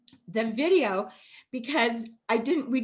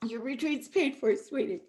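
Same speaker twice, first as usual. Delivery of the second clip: softer, gentle second telling; tender repeat; 3 dB quieter than usual. Real, not acted. Repeating the gift softly to a moved Naomi, tender. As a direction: let it sink in gently.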